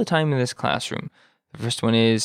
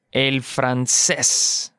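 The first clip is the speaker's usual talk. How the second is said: slow model; 2 semitones lower, much slower than usual. Shown as a demonstration. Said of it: "slow model for learners".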